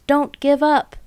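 high, loud breathless plea; panting plea. A narrator's reading. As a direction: beg them not to stop, gasping. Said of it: "panted Mister Fox".

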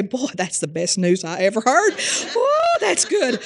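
squealing, high mock joy of a sinner; mock delighted sinner. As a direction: ham up a sinner thrilled by bad news. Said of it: "would you say".

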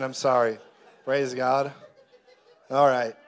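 laughing. Real, not acted. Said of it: "laughing at own joke".

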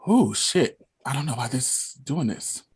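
quiet, fighting back tears; words fading as emotion takes over; real tearfulness, apologetic; choked up. Real, not acted. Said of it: "I'm getting kinda emotional".

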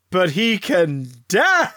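slow, grand announcing voice; panto host announcement. Acted. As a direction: announce it to the children.

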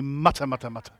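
very low, soft grumble; demonstrated muttering under the breath; mock muttering. Shown as a demonstration. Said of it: "Turn to your neighbor and say".

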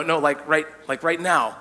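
sheepish admission. Retold or imitated. Husband admitting to his wife the friends come now, sheepish. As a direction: confess it like you know she'll be mad. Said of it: "I call her up like".

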